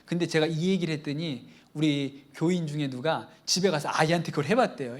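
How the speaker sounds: usual speaking voice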